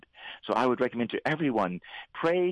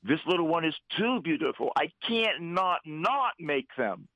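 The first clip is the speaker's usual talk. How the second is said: raised, earnest voice of God the Father, climbing higher toward the end; God pleading for his children; 6 semitones higher than usual. Retold or imitated. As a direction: plead like a father who longs to be loved back. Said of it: "But he said".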